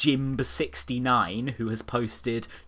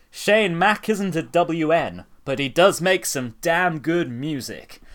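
showbiz guy; 3 semitones higher, 5 dB louder than usual. Retold or imitated. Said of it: "some shit-eating showbiz guy".

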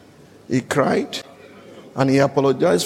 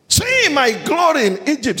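higher, proud announcement; announcing; 8 semitones higher than usual. Acted. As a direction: proclaim it like a ruler to his brothers. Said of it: "he announced to them".

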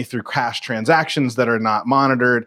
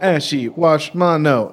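robot voice; 2 semitones higher, slower than usual. Retold or imitated. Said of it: "talks like our robot voice".

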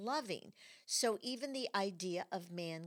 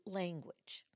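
whisper; 5 dB quieter than usual. Real, not acted. Whispered word.

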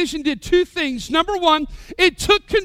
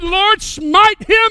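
slow, louder, hammed-up holy curse; mock prayer; 5 semitones higher, 7 dB louder, much slower than usual. Aggrieved speeder praying to the Lord against the cop, slow and hammed-up. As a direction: call down judgment like a mock prophet. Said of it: "You might come to me and go".

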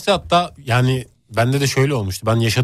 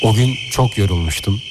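breathy storytelling. Acted. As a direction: breathe every word like a ghost story. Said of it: "Ama ses niye böyle nefesli böyle?".

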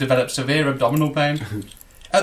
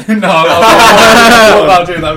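laughing through the words; 6 semitones higher, 12 dB louder, slower than usual. Real, not acted. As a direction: burst out laughing as you refuse. Laughing refusal to do accent.

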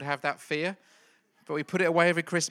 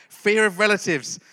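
louder repeat; 3 semitones higher, 6 dB louder than usual. Shown as a demonstration.

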